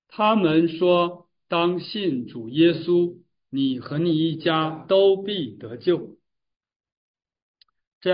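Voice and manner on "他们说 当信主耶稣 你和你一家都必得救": very slow, emphatic verse reading; scripture reading aloud. A narrator's reading. Preacher reads the apostles' answer to the congregation, slow solemn reading. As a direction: declare it solemnly, word by word.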